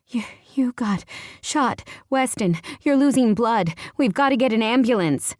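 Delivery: high, breathless, stammering panic; panicked stutter. A narrator's reading.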